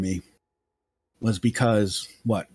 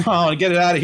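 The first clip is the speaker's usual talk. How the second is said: higher, louder mock disgust, close to laughing; laughing protest; 7 semitones higher, 5 dB louder than usual. Duelist waving away a dangled lamprey, laughing protest. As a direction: play recoiling with amusement.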